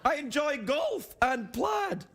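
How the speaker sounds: put-on puppet Scottish accent; hammy Scottish puppet voice. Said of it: "Me, Scottish puppet Drew Carey".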